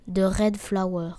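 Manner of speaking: slow attempt at an English accent; French speaker's go at an English accent. Shown as a demonstration. Streamer showing off a "fine" English accent on the game's title. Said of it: "Avec mon bel accent anglais".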